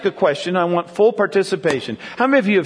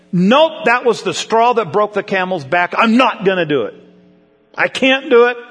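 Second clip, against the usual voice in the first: stubborn refusal. Retold or imitated. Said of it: "So whenever we think".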